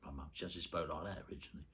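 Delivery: usual speaking voice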